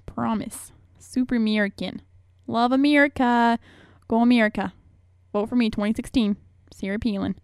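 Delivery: light mock Alaskan politician accent; Sarah Palin accent. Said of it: "Palin accent".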